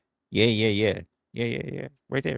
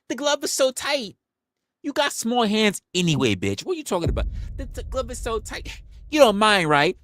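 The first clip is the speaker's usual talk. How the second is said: high, sing-song nurse impression; mock flirty nurse; 13 semitones higher than usual. Mocking ER nurses' excuses in a high flirty voice.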